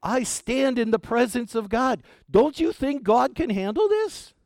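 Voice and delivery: a mock-indignant angel putting an old man in his place; Gabriel's retort. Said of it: "It's as if Gabriel was saying".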